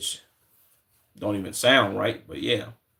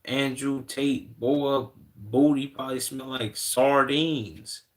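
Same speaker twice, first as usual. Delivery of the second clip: slow, higher teasing drawl; mocking jab; 4 semitones higher, slower than usual. Real, not acted. Streamer roasts Andrew Tate for chat, slow higher mock taunt. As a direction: roast him for laughs.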